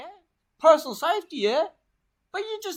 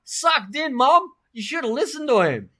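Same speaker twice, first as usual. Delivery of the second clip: gloating yell; 7 semitones higher, 7 dB louder than usual. Retold or imitated. Gloating at his mum in retelling.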